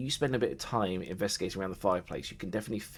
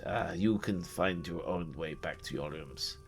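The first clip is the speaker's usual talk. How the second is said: weary servant; 2 semitones lower, 6 dB quieter than usual. Acted. Raden leaves the guests to find their rooms, weary and fading. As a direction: shrug them off and drift away to bed.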